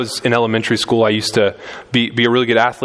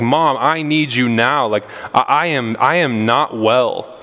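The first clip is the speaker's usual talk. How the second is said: put-on pleading child; slower than usual. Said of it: "exercising supplication towards her".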